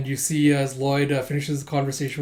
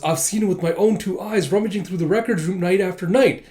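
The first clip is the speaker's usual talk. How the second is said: higher, insistent accusing voice; acted-out eager accusation; accusing informant; 5 semitones higher, 4 dB louder than usual. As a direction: tattle urgently on a colleague. Retold accuser informing on a colleague.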